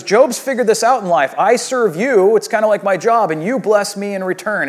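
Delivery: lightly voiced scheming Satan; mock Satan. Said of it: "And he goes".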